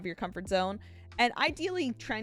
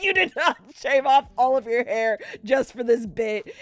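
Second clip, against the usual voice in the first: incredulous; 5 semitones higher, 8 dB louder than usual. Retold or imitated. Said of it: "And I was like".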